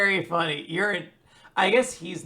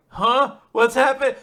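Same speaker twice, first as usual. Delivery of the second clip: higher, louder dumbfounded huh; clueless villain; 8 semitones higher, 10 dB louder, slower than usual. Retold or imitated. Listener mocking clueless Code, loud higher dumbfounded. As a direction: sound totally lost. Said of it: "He's just like".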